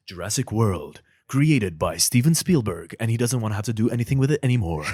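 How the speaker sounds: dramatic trailer announcer, building; movie trailer voice. Shown as a demonstration. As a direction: announce the blockbuster with gravity. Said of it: "movie trailer voice".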